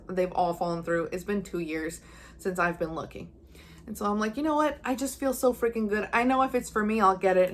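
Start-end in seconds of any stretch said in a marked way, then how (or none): 4.4-7.5 giddy confidence. Retold or imitated. After the house viewing, telling viewers her thoughts, giddy. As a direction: sound carefree and sure of yourself.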